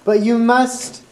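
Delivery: a hint of a kindly ghost giving a tip; friendly ghost. Friendly ghost telling the girls where Masongo is, lightly voiced. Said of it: "The ghost said".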